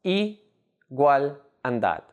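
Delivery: "i", "gual", "dad" said as separate syllables. Shown as a demonstration. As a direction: pause between "i", "gual" and "dad". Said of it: "made up of three syllables".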